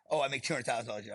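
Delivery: dismissive mock boast. Mimics a lesser boast, dismissively.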